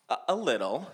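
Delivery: laughing. Retold or imitated. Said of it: "he bursts out laughing".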